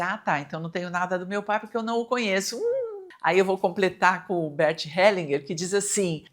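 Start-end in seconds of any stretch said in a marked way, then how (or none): 0.0-2.6 quick objection. Retold or imitated. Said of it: "E aí você vai dizer".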